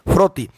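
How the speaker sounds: फिरौती said clearly as phi-rau-ti, falling tune; फिरौती का साफ़ उच्चारण; pronunciation demo. Shown as a demonstration. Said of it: "उच्चारण क्या है?".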